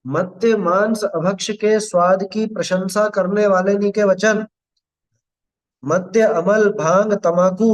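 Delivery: measured, slow reading of scripture; deliberate recital, each phrase set apart; scripture recitation. Acted. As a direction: read out the holy text phrase by phrase. Reads scripture text aloud.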